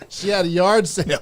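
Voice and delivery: chuckling through the words; laughing. Real, not acted. Host laughing at the fishing joke, laughing. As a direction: laugh as you say it.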